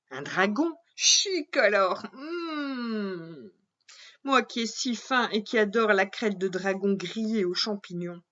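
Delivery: a hint of a gourmand princess; greedy princess. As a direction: relish the thought of a meal. Princess delighted by dragon news.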